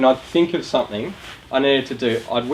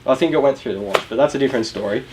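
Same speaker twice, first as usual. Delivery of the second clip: ordinary talk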